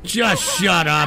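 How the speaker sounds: irritated order. Real, not acted. Streamer silencing a chatter, slow angry order. Repeats it at interrupting chat.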